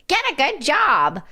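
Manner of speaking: mocking a bland New Year's goal, put-on chirpy voice; mock resolution. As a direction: recite it like a hollow slogan.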